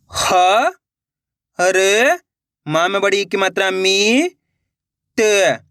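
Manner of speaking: drawn-out syllables with gaps, naming the vowel sign; spelling out. Shown as a demonstration. Teacher spelling a word for learners, one syllable at a time. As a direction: sound out each letter separately and stretch it. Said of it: "एक एक अक्षर का उच्चारण करके".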